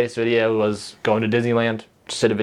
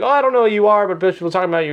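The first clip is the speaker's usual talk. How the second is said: high, lightly voiced eager waitress; mimicking the waitress; 8 semitones higher, faster than usual. Imitating the Texas Roadhouse waitress, high and eager. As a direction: chirp it like the excited server. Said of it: "she was like".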